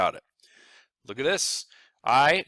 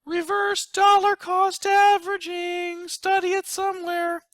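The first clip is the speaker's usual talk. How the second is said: dramatic announcer; 10 dB louder than usual. Acted. Planner unveiling a scary term to viewers, dramatic. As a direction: announce it like a movie title.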